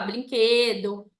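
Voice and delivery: "brinquedo" said with l for r, as blinquedo; child's mispronunciation. Retold or imitated. Mother imitating children's mistakes, "brinquedo" mispronounced as blinquedo. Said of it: "nossos filhos falam um negócio errado".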